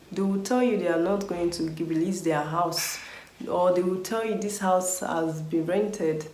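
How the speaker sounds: normal talking voice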